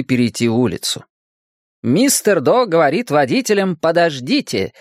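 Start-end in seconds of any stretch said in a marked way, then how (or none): 1.8-4.7 higher, lilting read-out; sing-song like a children's safety slogan; poster slogan. A narrator's reading. Narrator voices the children's poster slogan, lilting. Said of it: "гласила надпись на постере".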